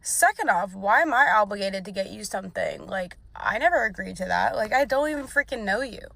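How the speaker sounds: mild mock outrage; indignant telling-off. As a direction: put him in his place. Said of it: "I was like".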